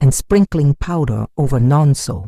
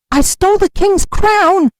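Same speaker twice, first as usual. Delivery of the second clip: much higher, loud anguished confession; tearful shout; 6 dB louder than usual. A narrator's reading. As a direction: cry it out to the whole market. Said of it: "he shouted, tears streaming".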